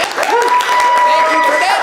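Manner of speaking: high, loud shouted thanks. Real, not acted. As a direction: call it out across the room. Shouted thanks to box office.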